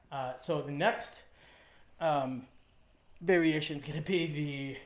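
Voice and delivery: breathless after lifting; winded, talking between breaths. Real, not acted. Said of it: "sorry, I'm out of breath".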